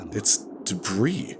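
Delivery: slow, even dialogue reading; radio voice. Acted. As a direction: read it slowly like a game line. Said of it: "like I normally do with my radio voice".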